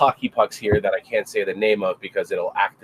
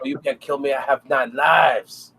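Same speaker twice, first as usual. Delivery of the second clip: mock gangster boast; 4 semitones higher than usual. Acts out a cat-named gangster.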